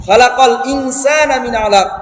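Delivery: slow melodic Quranic chant; Quran recitation. Shown as a demonstration. Teacher reciting the verse to students, melodic chant.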